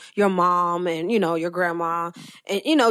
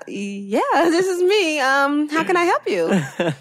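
laughing phone agent; 9 semitones higher, 5 dB louder, slower than usual. Retold or imitated. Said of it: "acted phone reply".

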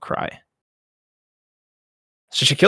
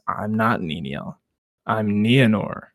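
dazed realization; 3 semitones lower, slower than usual. Acted. Nienor realizing her true identity.

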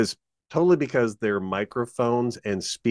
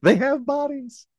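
pitched way up, announcer flair; dramatic announcer. Shown as a demonstration. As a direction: deliver it like a big reveal. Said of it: "Go ahead, Burke".

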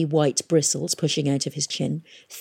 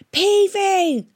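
high, loud holler of a name; 5 dB louder than usual. A narrator's reading. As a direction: call out over the thunder. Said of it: "she hollered".

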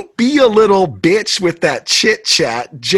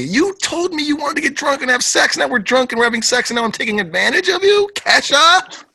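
mock outraged; 6 semitones higher than usual. Mock accusing argument.

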